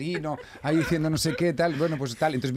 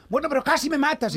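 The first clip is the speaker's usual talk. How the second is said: very high mock-indignant lady voice; arguing lady; 13 semitones higher than usual. Lady keeps accusing the driver, high mock indignation. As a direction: whine it back as the aggrieved lady. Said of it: "Y ahí discutiendo".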